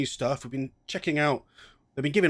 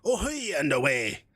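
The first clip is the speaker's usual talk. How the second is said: put-on pirate accent. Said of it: "I'm gonna end up in a pirate mode anyway".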